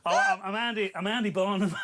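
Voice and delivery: lightly voiced northern politician; a half-hearted go at a northern accent; Andy Burnham impression. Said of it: "your impression of Andy Burnham".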